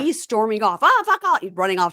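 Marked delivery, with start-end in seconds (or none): 0.8-1.4 mock angry. Retelling man storming off.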